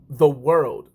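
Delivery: slow right down, leaning on "world"; stress on WORLD. Real, not acted. Explaining travel opens minds, slow stress on "world". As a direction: drag out "the world", WORLD slow and weighty.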